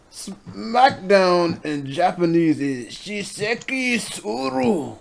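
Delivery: mock Japanese accent; slow, high mock Japanese pronunciation. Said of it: "the slightly Japanese accent".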